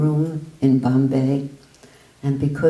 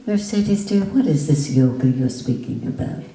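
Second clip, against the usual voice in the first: polite gentle question. Shown as a demonstration. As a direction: ask it kindly, the way he did not. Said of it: "he didn't say".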